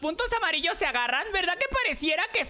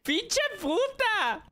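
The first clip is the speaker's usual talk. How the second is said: shouted curse; 2 semitones higher, much slower than usual. Real, not acted. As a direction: drag the curse out at a yell. Cursing after failing in game. (maldición gritada y alargada)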